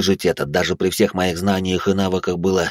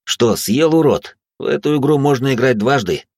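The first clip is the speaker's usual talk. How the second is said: taunting; 5 semitones higher than usual. Acted. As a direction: gloat at the demon. Taunting the demon.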